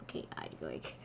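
very deep altered voice; voice changer. Real, not acted. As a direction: sound pitched far down by an app. Testing voice changer.

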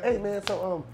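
lightly voiced celebrity working the room; T I impression. Cohost begs for the voice again, light T I impression. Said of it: "Do his voice again".

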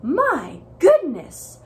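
drawn-out scandalized oh my goodness; shocked neighbors. Acted. Neighbors see the rainbow house, scandalized. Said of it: "The neighbors said".

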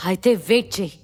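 mildly taunting challenge; provoking. Acted. Gentil goading Shiva with a three-day threat, taunting. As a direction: goad him into acting. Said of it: "శివని రెచ్చగొడుతూ అన్నాడు".

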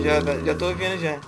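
ordinary talk, nothing marked

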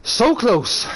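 excited shout. Real, not acted. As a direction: let it out in frustration. Near miss repeated.

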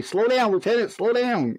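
high-pitched mock yell, no real volume; imitated yelling. Officers calling after the sprinting lieutenant, high mock yell. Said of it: "they're all yelling at me".

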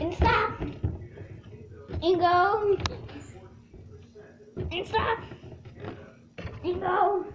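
loud game calls; calling out. Real, not acted. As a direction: call the game loudly.

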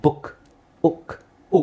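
ಬುಕ್ with a quick, short u. Shown as a demonstration. Teacher demonstrating small u in double-o words, short u. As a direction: keep the u of ಬುಕ್ and ಉಕ್ brief. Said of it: "ಇಲ್ಲಿ ಚಿಕ್ಕ ಊ ಹಾಕ್ಬೇಕು".

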